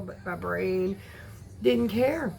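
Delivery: normal talking voice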